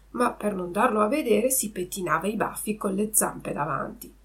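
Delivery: ordinary delivery, nothing marked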